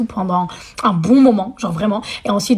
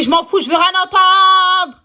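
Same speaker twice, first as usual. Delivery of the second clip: mock huffy refusal; 9 semitones higher, 4 dB louder, slower than usual. Rejecting the boy.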